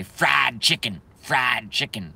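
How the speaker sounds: mock Southern twang on the vowels; obnoxious Southern accent. Streamer mimicking what he hates hearing people say, mock Southern accent. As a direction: imitate an obnoxious Southern drawl lightly. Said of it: "Not obnoxious Southern accents".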